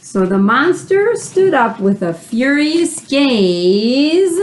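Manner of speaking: mock angry storybook voice; mock furious. Shown as a demonstration. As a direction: ham up the monster's angry glare. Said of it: "Super mad face".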